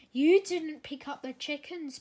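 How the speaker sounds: puffing. A narrator's reading. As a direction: puff it out in frustration. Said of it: "puffed Thomas".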